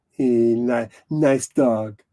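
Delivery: lightly put-on French accent; Clouseau. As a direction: fumble it in a French detective voice. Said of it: "What's that Clouseau thing".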